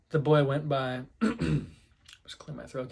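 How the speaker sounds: usual speaking voice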